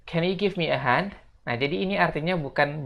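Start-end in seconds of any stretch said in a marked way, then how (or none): 0.0-1.2 higher model question; model sentence. Shown as a demonstration. Teacher introduces the polite request. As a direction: ask it brightly and clearly. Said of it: "Kita lanjut".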